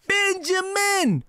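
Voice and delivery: slow call across the room. Real, not acted. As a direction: call a name across the house. Calling out to someone offscreen.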